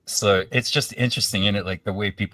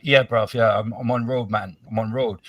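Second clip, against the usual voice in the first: imitated black London roadman accent, a bit higher; 3 semitones higher, 5 dB louder than usual. Imitating people wandering Glasgow's south side, black London accent. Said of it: "I'm about to do a black accent".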